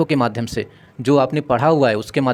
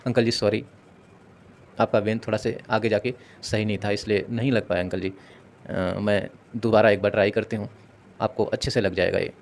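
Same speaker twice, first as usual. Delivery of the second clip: polite apology; 3 semitones lower, 4 dB quieter than usual. Shown as a demonstration. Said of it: "इस तरीके से उनसे request करना है".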